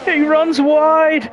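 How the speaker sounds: high, loud, slow anguished call; dismayed shout. Real, not acted. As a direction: stretch out the disbelief. Repeated call, dismayed climax.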